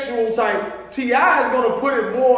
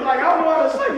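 shouting; 5 semitones higher, much faster than usual. Real, not acted. Laughing outburst in debate.

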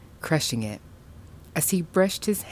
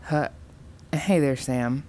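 stuttering. Acted. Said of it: "her mother stuttered".

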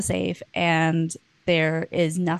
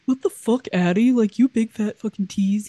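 raised, mildly hammed-up outrage; mock angry; 4 semitones higher, 4 dB louder than usual. Rejected man insulting the woman he was seeing, imitated anger. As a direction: imitate an offended guy lashing out. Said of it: "he gets really mad at her".

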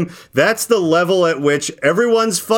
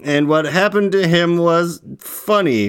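put-on slow sing-song reading of a kids' rhyme; reading a poem; slower than usual. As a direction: read the verse slowly with a bounce. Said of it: "Can you read that?".

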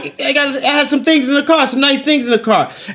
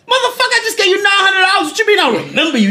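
laughing retort; 9 semitones higher, faster than usual. Retold or imitated. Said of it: "retold retort".

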